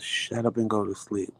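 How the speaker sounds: brisk, restrained telling-off; mild exasperated scolding. Retold or imitated. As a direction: scold a noisy husband without raising your voice. Wife scolds screaming husband, first take.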